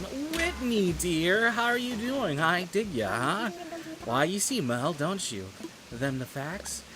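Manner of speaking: high, affected chatty character voice; voiced game character. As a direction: play a fussy character greeting a dear friend.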